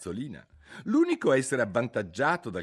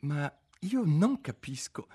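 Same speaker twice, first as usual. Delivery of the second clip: cautious; 7 semitones higher than usual. A narrator's reading. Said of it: "con molta cautela modulò".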